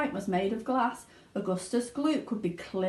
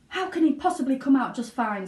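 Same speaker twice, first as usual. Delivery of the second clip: louder, sharp retort; snapping mother; 5 semitones higher, 5 dB louder than usual. A narrator's reading. Mother snapping at Wonka, louder. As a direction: snap back at him. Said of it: "snapped Missus Gloop".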